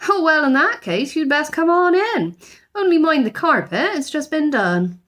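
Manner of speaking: loud, bossy housekeeper; brisk housekeeper. A narrator's reading. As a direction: order him in, briskly. Mrs Bird bossy at door.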